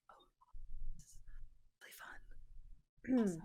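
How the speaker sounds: soft, understated aside; whispering. Acted. Player acts out a character's aside, lightly whispering. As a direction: murmur it under the talk, with gaps. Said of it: "He's, like, whispering".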